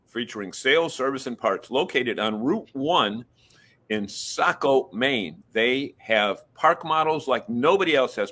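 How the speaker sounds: slow, deliberate radio ad read; radio announcer voice. Shown as a demonstration. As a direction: announce it like a sponsor spot. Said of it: "In your best radio voice".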